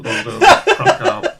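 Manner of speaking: squeaky voice crack. Real, not acted. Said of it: "that was terrible".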